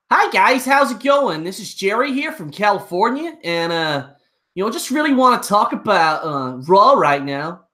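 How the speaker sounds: put-on a streamer doing a quick American accent on request; casual American accent, playing a guy from California. Viewer asks for an American accent, streamer obliges in American accent. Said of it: "Jerry, can you speak in an American accent?".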